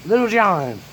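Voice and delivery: high call across the house. Retold or imitated. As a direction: summon the boy. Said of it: "Papa goes".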